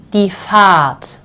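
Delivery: die Fahrt with a long stretched ah and no R; prolonged A. Shown as a demonstration. Teacher modelling the long A in die Fahrt for learners. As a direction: stretch the vowel in Fahrt, drop the R. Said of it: "this sounds like a very much prolonged A".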